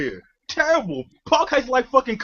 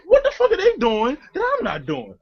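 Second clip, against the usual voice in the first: raised laughing disbelief; 8 semitones higher than usual. Retold or imitated. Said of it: "I was like".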